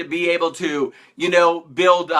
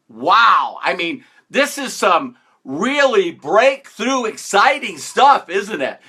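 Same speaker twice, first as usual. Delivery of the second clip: slow, louder mock wonder; sarcastic awe; 2 semitones higher, 3 dB louder, slower than usual. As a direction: pretend it's a breakthrough, dripping irony. Sarcasm about having a job.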